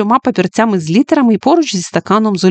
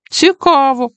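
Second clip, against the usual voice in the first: high-pitched exclamation of interest; keen, intrigued outburst; exclaiming; 6 semitones higher, slower than usual. A narrator's reading. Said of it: "вигукнув Френк".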